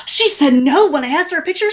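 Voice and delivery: put-on scandalized complainer; gasping, hammed-up grievance; mock outrage. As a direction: imitate an indignant fan tattling. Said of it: "people are still going".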